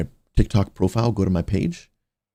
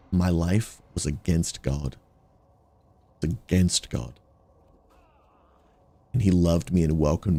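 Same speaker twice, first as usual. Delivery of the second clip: testimony. Acted. Streamer sharing his testimony with viewers, earnest preaching. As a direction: tell how his life changed.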